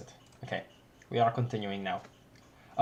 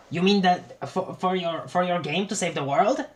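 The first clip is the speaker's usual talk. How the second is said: higher, questioning character voice; corrected character voice; 4 semitones higher than usual. Acted. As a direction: redo the reply in the right voice. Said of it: "I messed up the frickin' voices".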